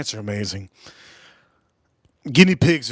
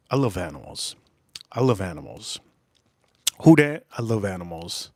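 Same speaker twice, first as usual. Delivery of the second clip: mock tearful; 6 semitones lower than usual. Real, not acted. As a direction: lightly fake a tearful voice. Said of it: "I'm about to cry".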